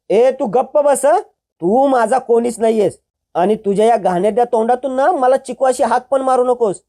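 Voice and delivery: angry dismissal. Acted. Girl rejecting the brother who betrayed her, furious. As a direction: shut him down with contempt. Chiku silences Vikrant angrily.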